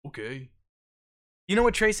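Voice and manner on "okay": much softer, lower "Okay" with a small rise; a quiet, defeated "Okay"; meek okay. Retold or imitated. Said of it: "a singer heard that and said".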